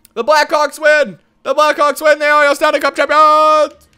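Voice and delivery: loud celebrating call; cheering. Real, not acted. Gamer celebrating his Stanley Cup win, loud cheering. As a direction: shout the win proudly.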